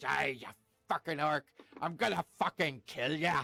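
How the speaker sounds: snarled, growling, sneering, menacing voice. Game master voicing a damaged enemy trying to intimidate the player, with a growling sneer. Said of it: "growls and sneers at you".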